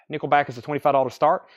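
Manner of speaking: demon voice. Real, not acted. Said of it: "sound like a demon just came out of me".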